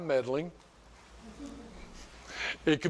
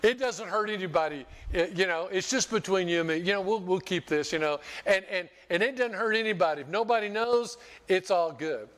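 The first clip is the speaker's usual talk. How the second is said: lightly voiced tempter, pitched up; spirit of addiction; 4 semitones higher than usual. Preacher voicing addiction's excuses to the congregation, lightly acted tempter. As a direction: coax insistently, higher than usual speech. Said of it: "spirit of addiction says".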